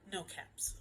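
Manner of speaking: hushed near-whisper; hushed discovery. A narrator's reading. Storyteller revealing the missing caps, hushed.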